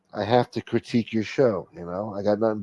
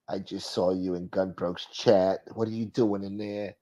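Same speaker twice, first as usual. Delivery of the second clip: put-on caller voice; 5 dB quieter than usual. Host playing a caller asking about a chat, put-on soft voice. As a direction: question them quietly, in character. One side of acted phone call.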